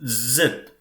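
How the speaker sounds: Zet said "tset", ending in a crisp T; German letter name. Shown as a demonstration. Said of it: "it is pronounced as".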